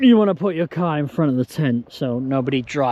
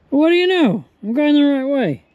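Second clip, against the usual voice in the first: surprised; 12 semitones higher, 6 dB louder than usual. Real, not acted. Surprised to be on route.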